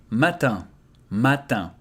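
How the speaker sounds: matin ending in a nasal an, no n; French matin. Shown as a demonstration. Teacher modelling matin for learners. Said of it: "I and N together becomes un".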